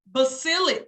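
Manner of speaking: basilic said buh-SIL-ik, first syllable set apart; demonstrated pronunciation. Shown as a demonstration. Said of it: "is pronounced basilic".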